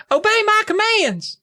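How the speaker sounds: high, theatrical shout; mock grand command. Brady commands his trick wand before the audience, high theatrical shout. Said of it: "I repeated".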